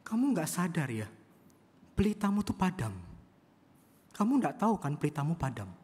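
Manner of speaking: loud, high rebuke to the angry blind man; sharp retort. Retold or imitated. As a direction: throw it right back at him. (balasan tajam dengan suara keras)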